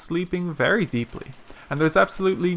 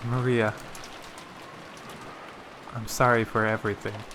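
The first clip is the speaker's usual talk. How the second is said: low, subdued murmured apology; mumbling; 4 semitones lower, 6 dB quieter than usual. A narrator's reading. Rosa apologizing to sleeping Maria in the rain, mumbling. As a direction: mumble it, barely meant to be heard. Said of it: "Rosa's mumbling voice didn't reach".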